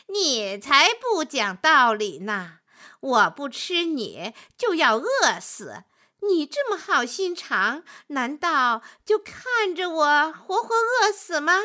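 scheming wolf, building to a high protest; wily wolf arguing. Acted. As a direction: argue like a self-righteous wolf. Wolf argues back with the man.

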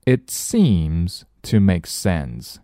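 slow, clear example sentence again; slow repeat. Shown as a demonstration. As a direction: repeat it slowly for learners. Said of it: "我们来看例句".

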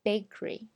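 Bakery as BAKE-ree; Bakery with no vowel after k; bare k. Shown as a demonstration. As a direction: say Bakery in two syllables. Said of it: "其实我们只发了k".

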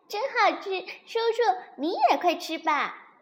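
high, loud little dino voice; delighted baby dinosaur. A narrator's reading. Baby dinosaur urging uncle to eat, high and delighted. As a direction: urge eagerly as a happy baby dinosaur.

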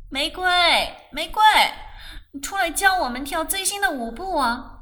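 high, lively call from outside. A narrator's reading. Party guest calls Rose out to dance, calling out. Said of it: "外头有人叫他".

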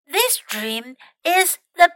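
loud, slow and delighted; happy. A narrator's reading. Mouse delighting in his dream, happy and loud. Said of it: "he said happily".

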